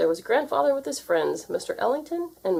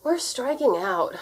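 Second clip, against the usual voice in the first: discouraged; 6 semitones higher, slower than usual. A narrator's reading. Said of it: "said Wilbur, discouraged".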